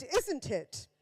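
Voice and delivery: lightly mimicked royal correction, "Isn't it?" fully pronounced; Prince Philip. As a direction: say "Isn't it?" properly, in a posh accent. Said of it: "And Prince Philip went".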